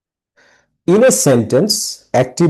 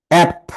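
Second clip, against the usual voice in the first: "অ্যাপ" punched higher as a lone beat; stressed syllable; 4 semitones higher than usual. Shown as a demonstration. Teacher showing students when to clap, stressing "অ্যাপ". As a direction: stress "অ্যাপ", cut off from its word. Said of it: "the stressed syllables".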